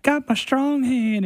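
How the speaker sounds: high, slow, squeaky voice; movie character quote. Retold or imitated. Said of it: "the guy's like".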